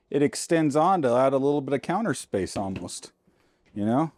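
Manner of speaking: a little winded while talking; out of breath. Real, not acted. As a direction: talk short of breath after the effort. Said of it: "I'm out of breath".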